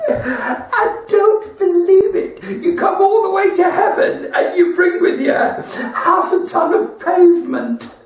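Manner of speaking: God's amazed outburst. Acted. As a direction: bellow it out, barely holding back laughter.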